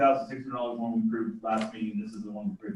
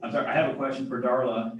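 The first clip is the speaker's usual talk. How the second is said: louder, clear repeat; speaking up; 4 dB louder than usual. Real, not acted. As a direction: raise voice so all can hear. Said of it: "I can't hear him at all".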